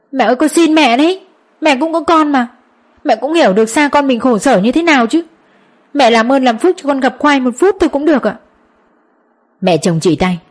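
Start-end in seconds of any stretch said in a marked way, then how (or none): 0.1-8.4 high, pleading daughter-in-law; desperate begging. Acted. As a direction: beg her with a raised, tearful voice.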